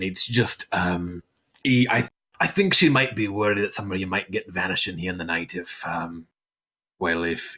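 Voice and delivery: a hint of a blushing host fumbling for words; flustered Brannick. Brannick dodging the visitor question, a mild fluster.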